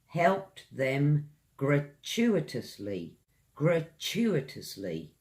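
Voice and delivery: gratuitously said slowly and clearly; slow careful read. Shown as a demonstration. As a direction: drag gratuitously out. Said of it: "You can say".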